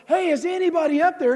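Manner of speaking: half-shouted imitation of a cry for help; calling for help. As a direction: call up as if stranded, lightly hammed-up. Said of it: "and we're going".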